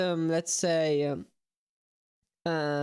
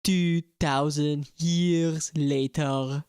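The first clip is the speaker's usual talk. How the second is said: narrator voice; 3 semitones lower, much slower than usual. Pretend. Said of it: "narrator card parody".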